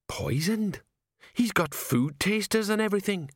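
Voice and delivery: put-on high, anxious old sergeant voice; a fretful sergeant aghast at the choice; Sergeant Colon. Sergeant protests to his commander, high and anxious.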